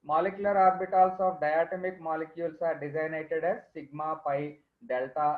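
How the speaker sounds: dictating notes very slowly; slow dictation. Acted. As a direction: read it out for students to write. Dictating definition.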